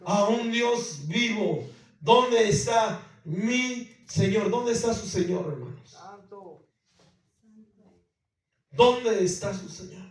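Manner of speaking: loud, high, emphatic sermon voice; full-force preaching. Acted. Pastor challenging the congregation about their Lord, loud and emphatic. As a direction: hammer the question home to the church.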